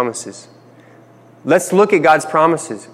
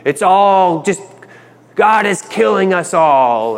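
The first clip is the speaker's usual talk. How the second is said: pessimistic lament; 6 semitones higher, slower than usual. Retold or imitated. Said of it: "Makes this very pessimistic statement".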